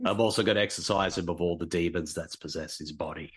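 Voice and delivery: lightly voiced Aussie tough-guy actor; hint of a brawling celebrity bloke; Russell Crowe. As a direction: boast like an Australian movie star. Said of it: "If Scott Adkins hit me in the chest".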